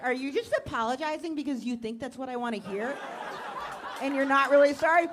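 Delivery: suspicion rising into a loud shout; girlfriend's mock shout. Girlfriend doubts the apology, shouting at her partner.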